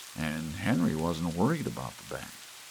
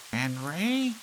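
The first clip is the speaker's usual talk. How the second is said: calling wife; 9 semitones higher than usual. A narrator's reading.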